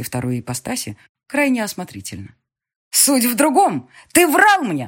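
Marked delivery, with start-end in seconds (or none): 2.9-4.9 high, loud slow outrage; furious accusation. Acted. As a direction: scream years of hurt at him. Daughter accuses lying father.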